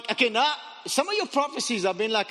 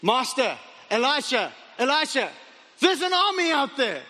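high, mounting alarm; calling the master in rising panic; acted frantic warning, climbing higher; panicked; 3 semitones higher than usual. Gehazi alerting his master to army.

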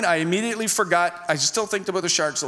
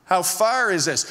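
insistent repeat. Retold or imitated. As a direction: press for a straight answer. Passenger insists after a vague answer.

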